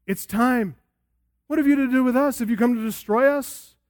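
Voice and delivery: a demon panicking at its sentence; terrified demon. Retold or imitated. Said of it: "This demon is terrified here".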